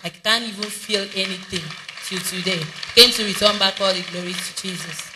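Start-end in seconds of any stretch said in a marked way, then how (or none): 2.9-5.1 louder, giving the glory back with force; loud closing declaration. Real, not acted. Man ending his testimony, declaring it loudly to the church. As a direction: proclaim it firmly to close.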